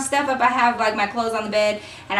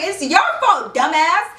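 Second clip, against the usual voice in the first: higher and sharp with scorn; blaming him; 5 semitones higher than usual. Retold or imitated. Girl blaming Jake mid-argument, high scornful jab. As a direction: throw the blame at him. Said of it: "kept pushing it back on him".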